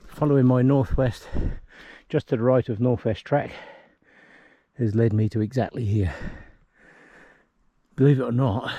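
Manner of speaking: pushing words out while winded; huffing and puffing. Real, not acted. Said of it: "apologies for the huffing and puffing".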